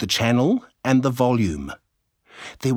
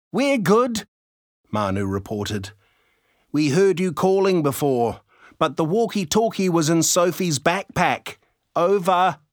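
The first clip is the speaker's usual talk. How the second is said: put-on higher, excited boy on the radio; chirpy kid reporting in; young boy voice; 7 semitones higher than usual. A narrator's reading.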